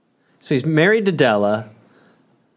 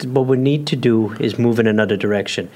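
dramatic firing scene. Pretend.

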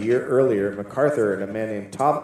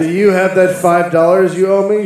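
put-on debtor voice; 6 semitones higher, 8 dB louder than usual. Demanding debt payment voice.

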